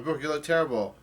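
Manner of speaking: retold yell. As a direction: voice a character calling out, half-hearted. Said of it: "Luffy yells out".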